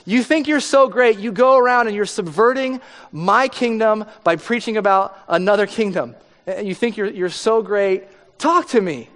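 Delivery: imitating an angry king shouting at a silent prisoner. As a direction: demand an answer, rising frustration. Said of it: "he got more and more angry".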